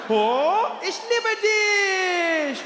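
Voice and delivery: very high, very slow, touched; imagined tearful dad. Pretend. Dad answering his son in German, high and overcome. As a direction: melt with love, voice soaring up. Imagined dad's tender reply.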